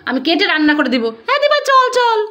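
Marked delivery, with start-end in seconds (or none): 1.3-2.2 high playful squeal of fear; mock scared running off. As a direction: pretend to flee in fright. Mother pretends to flee fish. (ভয় পাওয়ার ভান করে পালানো, উঁচু গলায়)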